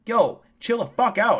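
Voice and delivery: mock scolding. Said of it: "And I'm like".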